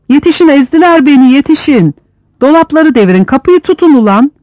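high, loud cries for help; desperate shouts. Acted. Prisoners shout for help and orders, high and loud. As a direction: yell for help over the fight.

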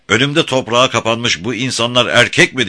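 mocking shout, pitched high; Beşvayo. A narrator's reading. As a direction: call it out with derision. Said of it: "diye bağırdı ve alaycı bir kahkaha attı". (alayla bağırarak)

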